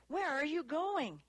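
high-pitched repeated question; insistent demand. A narrator's reading. Dewey asks Annie as she opens car door, insistent. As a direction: press for an answer, pitch up high. Asking again as she leaves.

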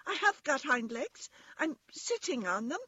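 high, emphatic little rabbit; crying out. A narrator's reading. Toy rabbit defends himself to the wild rabbit, high and protesting. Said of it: "cried the little rabbit".

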